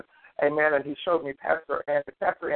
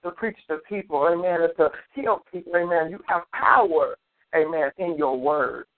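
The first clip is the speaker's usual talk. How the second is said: in front of an audience. Acted. Prophesying over pastor at full force.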